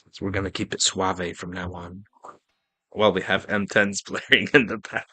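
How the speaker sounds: soft, smooth bedtime voice; bedtime story voice. Pretend. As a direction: keep it suave like a sleep story. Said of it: "Let me give you a good bedtime voice".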